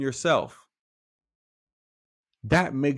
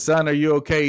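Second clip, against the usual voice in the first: louder, concerned call into a hole; 3 semitones higher, 6 dB louder than usual. Acted. Passer-by calls down to the man in the hole, loud concerned call. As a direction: call out to someone stuck below.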